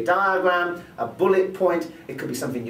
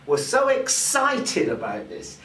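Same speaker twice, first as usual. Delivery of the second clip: EXCITED stretched with a lift in pitch; added vocal emphasis; slower than usual. Shown as a demonstration. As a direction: sell it by leaning slowly on "excited". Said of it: "changing the pitch and the pace".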